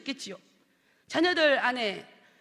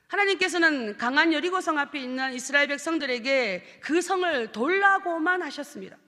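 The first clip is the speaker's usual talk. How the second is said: sermon. Acted. Sermon reading begins.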